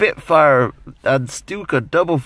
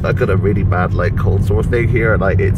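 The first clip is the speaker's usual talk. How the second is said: lips barely moving; barely opening mouth; 4 semitones lower, 4 dB louder than usual. Real, not acted. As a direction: speak through a tight mouth. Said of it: "I can't stretch my mouth open very far".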